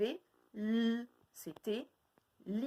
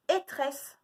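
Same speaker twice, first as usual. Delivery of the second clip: higher "Étresse" as a riddle; called-out syllable; 6 semitones higher, 4 dB louder than usual. Shown as a demonstration. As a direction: call out "Étresse" to the class. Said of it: "de deviner lesquels c'est".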